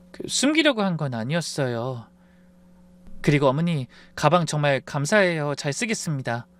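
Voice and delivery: calm reply. Acted. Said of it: "차분하게 입을 열었습니다".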